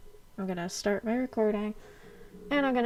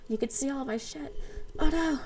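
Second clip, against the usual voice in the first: surprised; 5 semitones higher than usual. Real, not acted. Camera shows the whole room.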